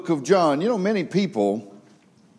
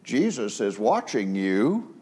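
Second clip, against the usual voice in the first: quirky squeaky parrot voice; 4 semitones lower, 5 dB quieter, slower than usual. Retold or imitated. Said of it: "odd sounding, kind of quirky, squeaky voice".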